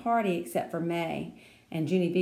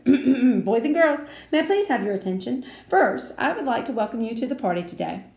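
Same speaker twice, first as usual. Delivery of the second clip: formal announcement; 4 semitones higher, 6 dB louder than usual. A narrator's reading.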